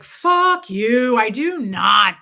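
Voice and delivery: loud, drawn-out mock outburst; retold angry denial. Husband denying he goes to parties, retold angrily. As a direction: snap back loudly, imitating an angry husband.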